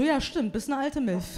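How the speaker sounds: quiet, deadpan confirmation; dry quiet agreement. Retold or imitated. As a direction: mutter it as a dry put-down. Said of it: "Der so".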